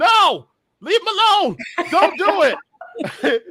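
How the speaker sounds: high, loud screaming.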